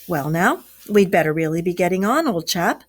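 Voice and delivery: careless. Acted. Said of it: "remarked carelessly".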